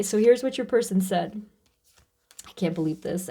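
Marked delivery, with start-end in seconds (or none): 2.5-3.3 softer, lower, stunned disbelief; quiet disbelief to herself. Real, not acted. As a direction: say it to yourself, overwhelmed. Overwhelmed by card message.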